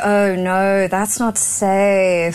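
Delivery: "safe" drawn right out, very slowly; elongated words. Shown as a demonstration. Showing colleagues a hybrid accent, elongated "safe". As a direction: stretch the vowels in "no" and "safe". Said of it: "I definitely elongate certain words".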